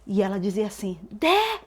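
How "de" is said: high-pitched cry, cut off; crying out in prayer. Retold or imitated. Woman praying over her begins to call God, high cry. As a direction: start a prayer cry and break off. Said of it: "ela gritava".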